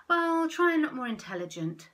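high, loud dolphin voices; bossy dolphins. Acted. Dolphins telling the squid off, loud and high. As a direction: lecture him from above. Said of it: "said the dolphins".

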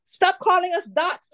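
islanders' mock indignant complaint. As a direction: play the islanders protesting.

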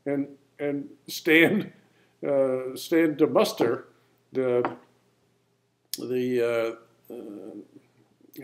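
slow fumbling mumble; trailing off, searching for words; mumbling. Real, not acted. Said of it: "I'm kinda mumbling here a little bit".

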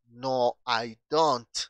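"no I don't" articulado con cuidado, marcando "don't"; pronunciación modelo. Shown as a demonstration. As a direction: modela "no I don't" para la clase. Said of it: "Chequen muy bien la pronunciación". ("no I don't" con T final clara)

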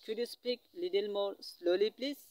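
very slow, word by word English; very slow teaching demo. Shown as a demonstration. Teacher modelling a polite request for students, very slowly. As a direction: drag out each word for the class. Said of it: "কি change করবেন?".

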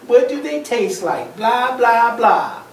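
dismissive acted mimicry; upset, mocking pigeon. Upset pigeon mimicking the duck, mocking. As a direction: parrot the question with mild scorn. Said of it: "He's really upset".

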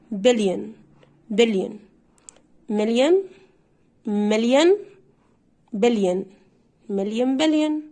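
بليون and مليون as "BEL-yen, MEL-yen"; silent O. Shown as a demonstration. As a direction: separate model words, endings reduced to "yen". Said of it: "الاولى تنطق".

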